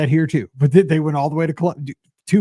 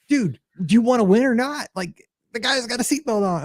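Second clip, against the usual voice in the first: exasperated pleading; 7 semitones higher than usual. Acted. Pleading with police over player.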